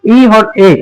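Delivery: letters drawn out one by one; slow, deliberate teacher spelling; slow spelled-out letters. Shown as a demonstration. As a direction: spell each letter slowly for the class. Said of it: "अब rule देखो क्या कह रहा है".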